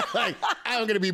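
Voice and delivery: laughing through the words; real laughter about dropping brands. Real, not acted. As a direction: giggle while joking. Laughing at her own joke.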